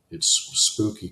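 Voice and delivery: jumps way up high on spooky; a hammed-up ghost-story squeal; mock spooky squeal. Describing a moonlit predawn walk, high mock spooky squeal.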